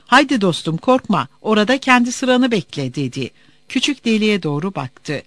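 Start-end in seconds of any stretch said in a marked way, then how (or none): 0.1-2.9 politely coaxing soldier, lightly voiced; gentle, smiling reassurance. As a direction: mildly encourage with a smile. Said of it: "Nazik bir gülümsemeyle". (nazik, gülümseyen bir sesle)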